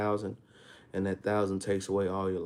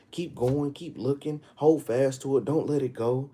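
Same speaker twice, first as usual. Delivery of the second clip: raised, driving exhortation; higher-pitched, insistent sermon delivery; forceful preaching; 4 semitones higher, 4 dB louder than usual. Real, not acted. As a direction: urge them on, command after command.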